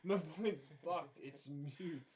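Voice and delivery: tipsy and slowing down. Real, not acted. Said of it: "I'm drunk right now".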